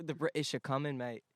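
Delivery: playful Aussie imitation; Australian accent. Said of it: "that was Australian".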